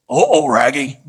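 loud, goofy cartoon dog voice; talking dog. Family dog tilts its head at the outburst, talking-dog voice. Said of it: "says something like this".

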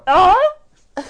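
high loud goofy voice; Jim Davis voice. Pretend. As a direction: play the odd caller. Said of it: "he sounds pretty weird".

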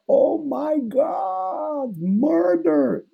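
high, drawn-out crying wail; crying Hamlet. Acted. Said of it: "o Hamlet começa a chorar e fala".

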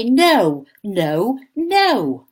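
a hint of a stubborn girl refusing; mild stroppy no from a little girl; stubborn child. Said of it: "stamp her feet and shake her head".

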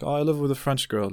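joking hint. Retold or imitated. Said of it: "like, very jokingly".

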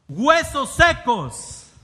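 loud, high, slow shout; exclamatory. Shown as a demonstration. Preacher showing how exclamation marks should be read, exclamatory. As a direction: call it out with full exclamation, words stretched. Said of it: "cuando tiene signos de exclamación, ¿cómo se debe decir?".

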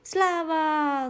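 high and loud exclamation; dog shouting hooray at finding home; joyful shout. Acted. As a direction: cry it out in triumph.

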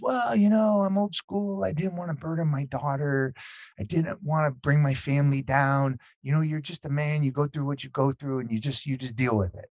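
lightly voiced old father, starting high and sinking; softly acted dad explaining himself, pitch settling downward; old-school elderly dad. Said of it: "eighty-year-old guy, and he's old school".

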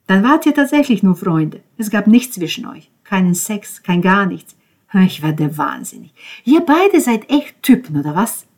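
worked-up, scornful questioning; exasperated. Acted. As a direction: vent your disbelief at them. Ben exasperated at the two men.

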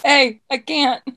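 hammed-up exasperation, dragging the last phrase; Danae. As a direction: imitate a friend who just can't take it. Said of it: "You're like".

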